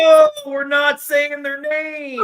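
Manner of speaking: loud, slow shouted warning. Real, not acted. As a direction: call a halt, half-laughing. Co-host stops banned team names.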